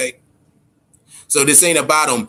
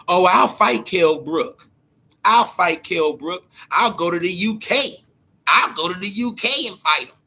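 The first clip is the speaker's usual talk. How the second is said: mocking Thurman; 3 semitones higher than usual. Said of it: "let me tell you what else this motherfucker said".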